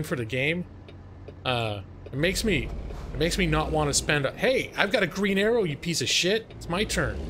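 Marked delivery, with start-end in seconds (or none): 4.3-7.2 annoyed driver yelling at traffic; road rage. Real, not acted. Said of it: "Sorry, road rage".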